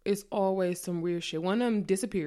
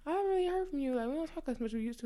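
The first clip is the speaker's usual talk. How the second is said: higher, softer and quick, unsure; pitched-up, soft worried asking; timid questioning; 7 semitones higher, 6 dB quieter, much faster than usual. Retold or imitated. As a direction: ask carefully so as not to seem clingy. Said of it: "I'm like".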